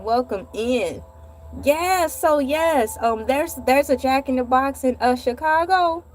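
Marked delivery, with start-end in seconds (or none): 0.0-1.0 vlog greeting. Shown as a demonstration.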